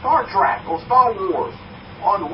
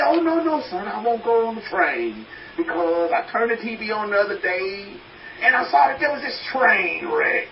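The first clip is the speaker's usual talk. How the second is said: worried mother; 3 semitones higher than usual. Retold or imitated. Son retells mother refusing the train.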